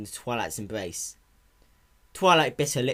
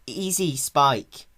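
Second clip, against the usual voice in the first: calming; 4 semitones higher, 5 dB louder, much slower than usual. Acted. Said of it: "trying to calm him down".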